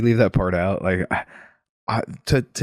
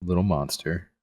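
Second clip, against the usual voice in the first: reading aloud. Acted. Reads the book passage aloud.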